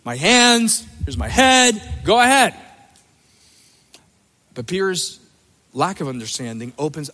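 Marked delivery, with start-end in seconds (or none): 0.0-2.5 eager Peter. Retold or imitated. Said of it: "so he's like".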